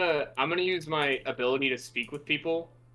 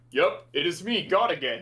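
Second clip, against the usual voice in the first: lightly voiced God backing up the claim. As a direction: confirm it as a pretend God. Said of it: "you hear in your voice".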